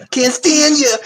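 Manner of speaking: high laughing mock yell of a catchphrase. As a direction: toss it out like a sitcom line.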